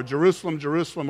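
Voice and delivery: normal talking voice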